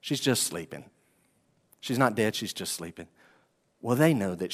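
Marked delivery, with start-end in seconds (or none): 0.0-3.1 gentle. Pretend. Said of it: "And then he says".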